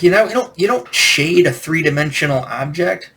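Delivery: exasperated mock correction; mock scolding. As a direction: imitate a friend's indignant objection. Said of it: "one friend was yelling at me".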